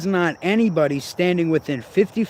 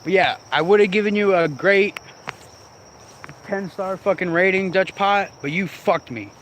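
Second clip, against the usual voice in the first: pissed off; 5 semitones higher than usual. Real, not acted. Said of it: "and I'm pissed".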